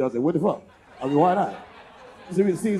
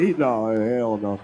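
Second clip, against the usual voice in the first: very low, slow mock refusal; imitating refusing man; 14 semitones lower, slower than usual. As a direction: drop deep and slow for his no. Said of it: "He said".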